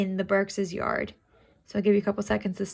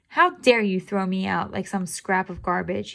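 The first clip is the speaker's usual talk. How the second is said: mild indignant growl; a touch of offended tomcat. Acted. Toby complains about being thrown out, mildly indignant. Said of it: "he growled".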